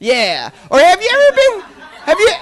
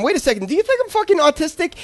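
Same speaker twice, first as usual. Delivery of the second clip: sudden horrified realization, rushed and quieter; hushed fast indignant question; fast, softer, alarmed; 5 semitones higher, 4 dB quieter, faster than usual. Retold or imitated. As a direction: blurt it out fast as it dawns.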